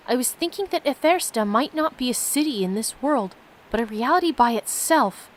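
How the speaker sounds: steady read-aloud narration of the game text; reading the story to viewers, lightly lifted. Acted. Streamer reads the game's story to viewers, steady narration.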